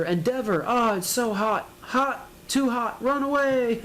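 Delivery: a fleeing bystander squealing about the heat; mock panic.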